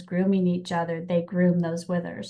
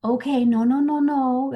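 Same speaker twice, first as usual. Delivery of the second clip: coddling, cooing "it's okay"; babying; 3 semitones higher than usual. Retold or imitated. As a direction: soothe a scared child too much. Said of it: "I don't want her to go".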